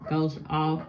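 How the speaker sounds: talking with whitening strips on teeth. Real, not acted. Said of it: "I got the whitening strips on".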